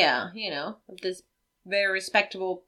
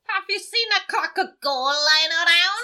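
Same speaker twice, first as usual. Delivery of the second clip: high, badly faked Irish leprechaun; cartoonish Irish movie impression; mock Irish accent; 7 semitones higher than usual. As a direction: put on a hammy Irish accent, pitched up. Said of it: "It's literally exactly what he sounds like".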